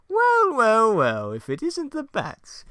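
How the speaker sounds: high, loud, slow gloating; Joker voice. Acted. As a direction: savor it like a smug villain. Joker greets Batman.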